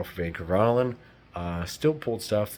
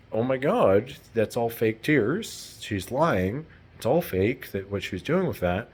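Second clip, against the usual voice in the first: shocked realization; 4 semitones higher than usual. Retold or imitated. Catching the fake tears, shocked and higher. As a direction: blurt it as it dawns. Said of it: "it went".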